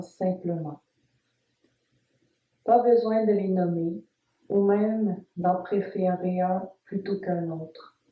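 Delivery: calm, measured Yoga Nidra guidance with long pauses; guided meditation. Acted. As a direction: guide the listener phrase by phrase, leaving space after each instruction. (voix posée de méditation guidée, entrecoupée de silences)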